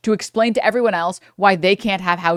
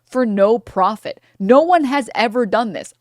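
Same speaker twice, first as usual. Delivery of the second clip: slow, higher smug mock; mock business bro; 4 semitones higher, slower than usual. Streamer mocking business bros, slow smug voice. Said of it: "And they're like".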